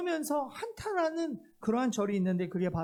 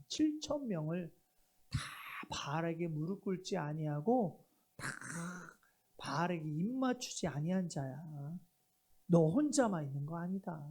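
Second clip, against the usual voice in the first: God's reply; 6 semitones lower, 4 dB quieter than usual. Acted. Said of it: "십구 장 십팔 절의 말씀".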